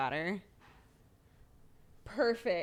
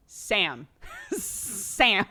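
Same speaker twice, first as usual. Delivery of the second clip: mock insistent call, louder; calling his name; 2 semitones higher, 6 dB louder than usual. Wife acts out getting her focused husband's attention, mock insistent call. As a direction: call out to snap him out of it. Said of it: "I'll just be like".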